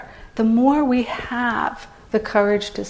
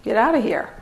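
nice dismissal. Retold or imitated. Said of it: "in a nice way".

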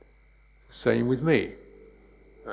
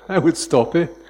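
amused emphasis; 5 semitones higher, 8 dB louder than usual. Real, not acted. Laughing punchline.

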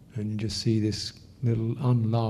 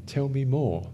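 a touch higher, inviting; inviting curiosity; 3 semitones higher than usual. Shown as a demonstration. Teacher demonstrating a compassionate response, inviting. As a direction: gently ask to hear more. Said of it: "this is a good attitude".

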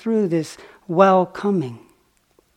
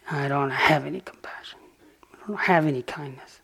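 half-whispered, softer quote of the prisoner; hushed quote; 3 dB quieter than usual. Retold or imitated. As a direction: breathe his words almost under your breath. Quoting the murderer quietly.

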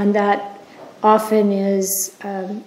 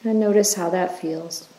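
unhurried, even-toned meditation leader; guided meditation. Acted. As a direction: guide listeners gently through the body, leaving space after each phrase.

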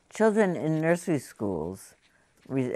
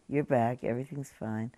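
reassuring; 4 dB quieter than usual. Retold or imitated. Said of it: "is a reassuring thing to hear".

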